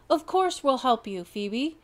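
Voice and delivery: rally the team; a touch of resolve. Acted. Bronco decides to help.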